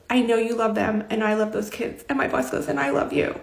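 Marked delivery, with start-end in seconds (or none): 0.1-2.0 tearful retelling. Retold or imitated. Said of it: "like, we were crying". 2.7-3.4 high, soft, choked-up retelling; boss's emotional declaration, retold softly; tearful affection. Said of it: "like, we were crying".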